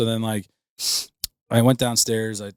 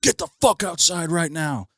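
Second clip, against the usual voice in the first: barked order, pitched high; angry cop yelling; 8 semitones higher, 4 dB louder than usual. Retold or imitated. Cop yells at the drunk student to get outside, angry shout. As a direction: yell it like a furious cop.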